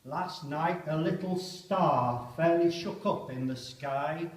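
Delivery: poem reading. Acted. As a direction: muse on the star before the attack. Poem recited aloud.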